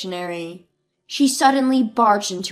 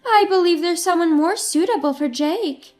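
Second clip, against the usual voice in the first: pushy demand; 4 semitones higher, 4 dB louder than usual. Acted. Mother-in-law demands divorce.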